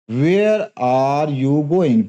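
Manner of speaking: Where are you going? very slow, voice dropping at going; falling intonation. Shown as a demonstration. Teacher demonstrating a falling question tune. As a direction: bring going down at the end. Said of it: "आवाज अंत में नीचे जाती है".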